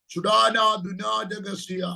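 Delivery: slow, drawn-out tongues syllables; speaking in tongues. Real, not acted. Prophet breaking into tongues mid-prophecy, slow and drawn out.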